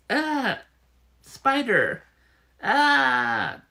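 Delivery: high, loud panicked shrieks; loud high shriek, spider; spider scream. Acted. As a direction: scream at the sight of it.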